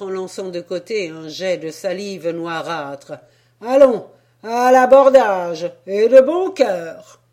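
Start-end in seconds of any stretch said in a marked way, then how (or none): 3.6-7.2 high, loud call to board; rallying cry. Acted. Sailor calling to storm the pen, loud rallying cry. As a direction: rouse your mate to action.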